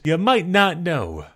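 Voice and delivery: slow, deadpan "You might not know."; dry sarcastic repeat. Real, not acted. Mocking Jerry after the outburst, slow deadpan sarcasm. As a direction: drop the energy and let "You might not know." land slowly.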